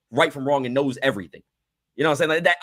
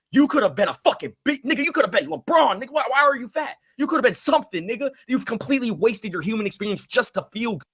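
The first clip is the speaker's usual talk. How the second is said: exasperated rant; 6 semitones higher than usual. Real, not acted. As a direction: rant at them in disbelief. Ranting at fat strangers.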